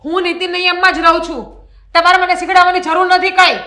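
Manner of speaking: wife snapping back at husband, angry; angry retort. Acted. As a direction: throw his lecture back at him.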